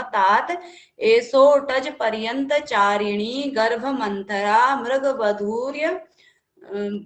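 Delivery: drawn-out verse reading; teacher reciting the verse; slow recitation. Shown as a demonstration. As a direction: chant the Sanskrit slowly. Recites the next verse slowly.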